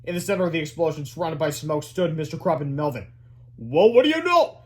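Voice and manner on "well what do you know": high, loud pleased voice; smug surprise. A narrator's reading. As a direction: act amazed at yourself. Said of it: "said Mister Sneely".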